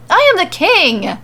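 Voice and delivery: high, loud, petulant yell. A narrator's reading. Corbin yelling back at Mandy, enraged king. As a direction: bellow your claim to the throne. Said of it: "he yells back at her".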